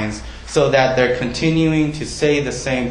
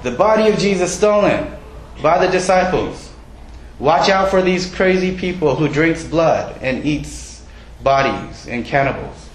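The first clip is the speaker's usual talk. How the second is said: mock headline; 4 semitones higher than usual. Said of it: "the Roman Times says".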